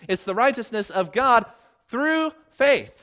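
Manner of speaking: "faith" lifted high and loud at the end; emphasis on faith. Shown as a demonstration. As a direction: land hard on "faith". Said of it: "notice the emphasis on faith here".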